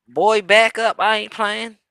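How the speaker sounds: acted no-nonsense warning; stern warning. Acting out the shot's warning.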